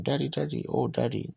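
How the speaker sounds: imitating a girl's high, pitiful cry for her daddy; a lightly voiced plaintive wail, pitch up; retelling a lost blind girl's cry, mildly voiced; pathetic cry. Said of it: "the most pathetic cry".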